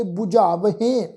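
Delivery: ਬੁਝਾਵਹੇਂ with a sounded h and nasal ending; nasalised ending. Shown as a demonstration. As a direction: finish ਬੁਝਾਵਹੇਂ on a nasal "hen". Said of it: "ਇਸੇ ਤਰ੍ਹਾਂ ਪਾਠ ਉਚਾਰਨ ਕਰਾਂਗੇ". (ਬੁਝਾਵਹੇਂ, ਅਖੀਰ ਬਿੰਦੀ ਸਹਿਤ)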